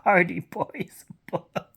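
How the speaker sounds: exasperated disbelief. Retold or imitated. Reader asking the book why it's included, slow and baffled. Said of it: "And I'm like".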